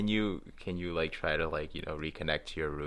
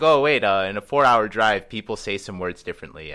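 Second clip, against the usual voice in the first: mock surprise; 7 dB louder than usual. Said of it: "it's like".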